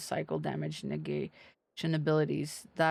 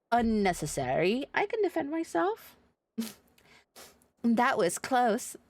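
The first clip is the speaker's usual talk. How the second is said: higher, lightly voiced young fighter; playful heroine; 4 semitones higher than usual. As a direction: tease and brush it off. Voicing NPC dialogue.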